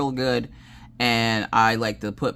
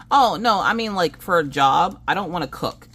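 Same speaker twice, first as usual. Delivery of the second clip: lightly voiced child, higher pitch; imitated child protest; 6 semitones higher than usual. Daughter explains to mom about jobs, imitated protest.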